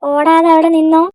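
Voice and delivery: shouting stop right there; angry shout. Acted. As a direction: yell at him to stop running. Chasing him, calling out.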